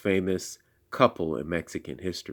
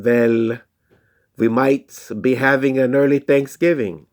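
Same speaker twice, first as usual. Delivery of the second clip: put-on German accent; 4 semitones higher, 4 dB louder than usual. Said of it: "thick German accent".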